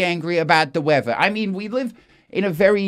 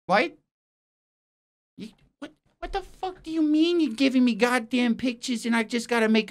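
incredulous outrage; 3 semitones higher than usual. Acted. Presenter complains to producer about missing headlines, incredulous. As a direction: protest as if you can't believe it.

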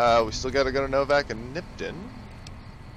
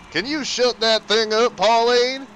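much higher and louder voice; high character voice; 10 semitones higher, 7 dB louder, slower than usual. Pretend. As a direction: play a fussy husband. Voicing the man in game scene.

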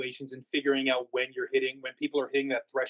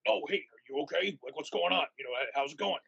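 caring check-in; 3 dB quieter than usual. Retold or imitated. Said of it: "switch ... to then being an engaging character".

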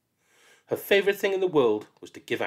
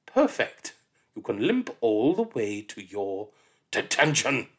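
gleeful cruel teacher. Acted.

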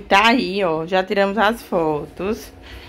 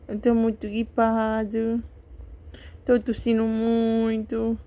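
voicing the sick baby; 5 dB quieter, slower than usual. Mãe fala pelo bebê doente.

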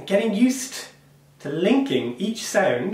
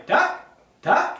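tak jumped way up high and rising; 12 semitones higher than usual. Shown as a demonstration. Teacher shows pupils the high tak, sung high and rising. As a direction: flick each tak up to a high squeak. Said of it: "Tak is high-pitched, going up".

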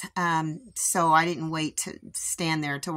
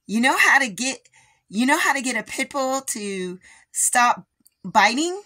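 higher-pitched, lightly voiced little girl; 5 semitones higher than usual. Littlest girl quizzing her about the dog, lightly voiced child. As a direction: lightly imitate a little girl asking a question. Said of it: "their littlest girl".

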